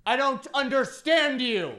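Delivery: high, slow, pleading repeat; panicked repeat. Retold or imitated. Student panicking at Italian professor, high whine.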